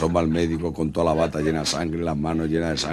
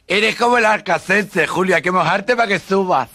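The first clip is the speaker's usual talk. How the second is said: mocking effeminate voice; 14 semitones higher, 6 dB louder than usual. Le abre la puerta burlón.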